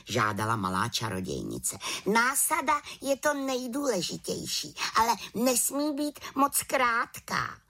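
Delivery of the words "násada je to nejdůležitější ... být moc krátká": put-on much higher, eager little girl voice; a cheerful small witch with plans. The little witch invites Havran to the village, high and eager.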